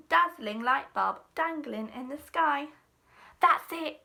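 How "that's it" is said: excited shout of discovery. A narrator's reading. Marcel shouting as the idea hits him. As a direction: burst out with the idea. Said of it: "shouted Marcel".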